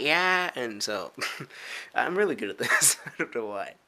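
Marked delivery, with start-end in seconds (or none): 0.0-0.5 put-on stereotype girl voice. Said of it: "white girl stereotype".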